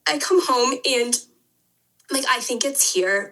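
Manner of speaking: holding back real tears, halting; emotional. Real, not acted. Podcast guest recalling finding the mold at home, emotional. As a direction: push on haltingly through rising tears. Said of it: "Sorry, I'm getting emotional".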